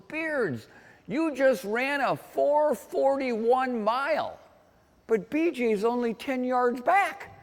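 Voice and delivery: high, slow, stretched-out call; volunteer calling out. Retold or imitated. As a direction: act out a bystander calling the split to a runner. Volunteer on bicycle calls out split.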